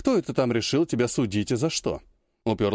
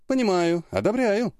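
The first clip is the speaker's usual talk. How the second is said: gleeful approval; 8 semitones higher than usual. Acted. Sister approves fight with glee.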